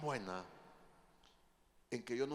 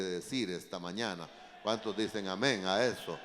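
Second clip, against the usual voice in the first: preaching exhortation; 7 dB louder than usual. Real, not acted. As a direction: preach it out to the congregation, building louder.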